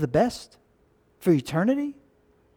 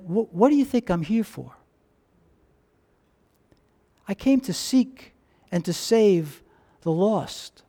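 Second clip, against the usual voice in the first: calm Jesus; 4 dB quieter than usual. Acted. Jesus answers calmly, with resolve.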